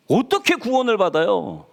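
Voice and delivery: ordinary delivery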